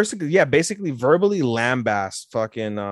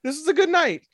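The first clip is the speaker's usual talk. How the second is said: much higher, louder hurried excuse; high hasty exit; 4 dB louder than usual. Acted. Fujiwara fleeing the karaoke, high hurried excuse. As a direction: squeak out an excuse to leave. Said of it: "And she's like".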